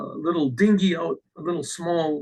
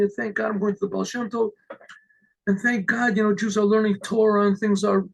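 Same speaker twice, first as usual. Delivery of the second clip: higher-pitched, lightly acted thankfulness; grateful reply; 4 semitones higher than usual. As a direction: play a thankful man, repeating it in a lifted voice.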